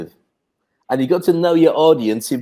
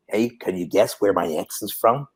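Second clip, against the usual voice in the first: put-on low-pitched, softer Boston accent; 7 semitones lower, 4 dB quieter than usual. Friend asking a Brit to guess his origins, Boston accent. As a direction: imitate a Boston man's accent. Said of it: "I didn't know what a Boston accent sounded like".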